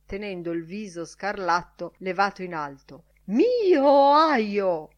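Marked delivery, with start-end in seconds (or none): 3.3-4.9 long, high, loud squawk; shrill croak. A narrator's reading. Director with face raised high, shrill croak. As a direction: stretch it into a shrill cry. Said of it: "gracchiò il direttore con voce stridula".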